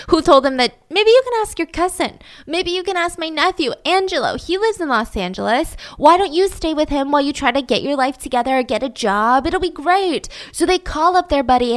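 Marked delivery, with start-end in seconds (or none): 0.9-10.3 mom voice. Retold or imitated.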